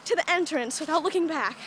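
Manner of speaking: breathless, winded from running; out of breath. Real, not acted. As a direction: still panting, words between breaths. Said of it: "that's why we're so out of breath".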